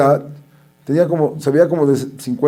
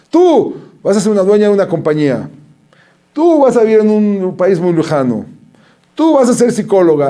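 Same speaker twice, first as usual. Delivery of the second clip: fortune-teller gypsy voice; 5 semitones higher than usual. Retold or imitated. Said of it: "a hablar como si fuera una gitana".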